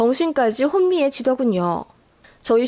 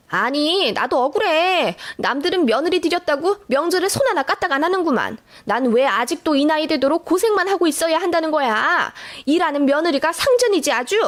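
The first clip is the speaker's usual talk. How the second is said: higher-pitched, aggrieved whine; whining complaint; 4 semitones higher than usual. Acted. Mother-in-law pleading her grievance to her husband, whining. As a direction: protest plaintively, voice pitched up. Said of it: "시어머니도 우는 소리를 하시더군요".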